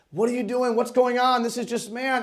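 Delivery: mildly agitated imitation of a troubled prophet; a touch of exasperated protest; concerned, upset. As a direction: act out upset questioning of God. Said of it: "he's so concerned and upset".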